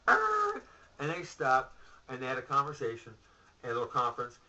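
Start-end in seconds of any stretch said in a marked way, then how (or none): 0.1-0.6 mock growl. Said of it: "And they went".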